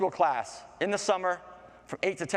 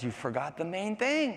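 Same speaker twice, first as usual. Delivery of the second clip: higher, rising reminder; insistent flower; 5 semitones higher than usual. Acted. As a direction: lift the pitch toward the last words. Flower repeats its warning.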